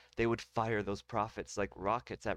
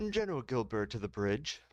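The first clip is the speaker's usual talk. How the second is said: plain PA call. Acted. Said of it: "do that with some cool special effects".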